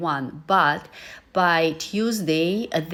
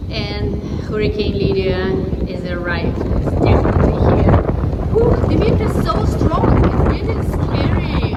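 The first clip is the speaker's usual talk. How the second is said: raising voice over the storm; shouting over wind; 3 semitones higher, 9 dB louder than usual. Real, not acted. Hurricane wind, filming outside.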